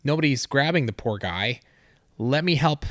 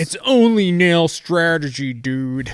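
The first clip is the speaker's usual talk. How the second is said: loud, high frat bro drawl; 5 semitones higher, 6 dB louder than usual. Pretend. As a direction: play it like a dude bro. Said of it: "That's my, my bro voice".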